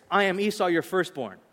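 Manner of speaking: "firstborn" as the closing point; emphasis on firstborn. Shown as a demonstration. Jacob claiming to be the elder, stressing "firstborn". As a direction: finish on a firm, falling "firstborn". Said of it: "The emphatic is at the end".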